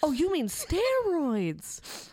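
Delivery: slow, drawn-out quote of the dad; lightly voiced TV dad; quoting the show line. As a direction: stretch out steroids lazily. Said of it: "I just like the way he says it".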